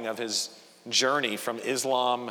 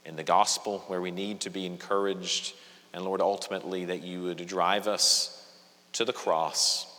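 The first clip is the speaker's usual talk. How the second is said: measured, earnest congregational prayer, slightly lowered; 4 semitones lower than usual. Real, not acted. Preacher praying for the congregation before the sermon, prayer. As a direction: pray aloud with pauses between phrases.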